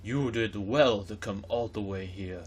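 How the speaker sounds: slow, deep booming king's voice. Acted. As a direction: boom it out like a mighty king, slowly. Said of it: "I need to give him a deep booming voice".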